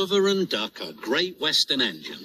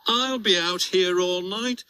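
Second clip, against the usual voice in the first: moaning; 7 semitones higher than usual. Acted. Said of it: "moaned Oliver".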